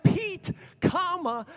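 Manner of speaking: high, loud call of the name; shouted dictation. Retold or imitated. Reading the friend's insistent reply, loud and high.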